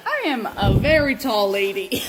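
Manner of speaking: laughing through the words; giggling as she says it. Real, not acted. Laughing about climbing hole.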